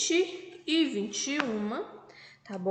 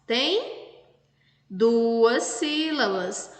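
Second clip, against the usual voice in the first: slow stressed answer; much slower than usual. Shown as a demonstration. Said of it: "teacher stressing the answer".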